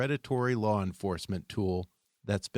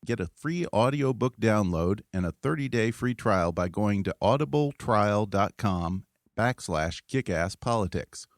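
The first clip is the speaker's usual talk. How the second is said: upbeat, louder sponsor read; 4 dB louder than usual. Acted. Host reading a sponsor ad to podcast listeners, bright ad voice. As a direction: sell the audiobook offer to listeners.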